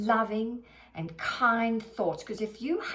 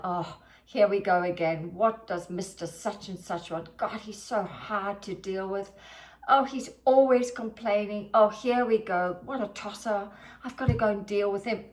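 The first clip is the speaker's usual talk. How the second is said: annoyed grumbling. Retold or imitated. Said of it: "passengers complaining".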